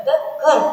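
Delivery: light "the", then "curve" punched and falling; stress on curve. Shown as a demonstration. Teacher marking the beat in a poem line, stress on "curve". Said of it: "Then you have a stress there".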